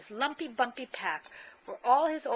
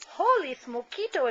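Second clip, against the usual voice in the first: higher, louder gleeful cry; excited exclamation; 7 semitones higher, 8 dB louder than usual. Acted. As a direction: burst out in delight. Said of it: "exclaimed Skippy John Jones".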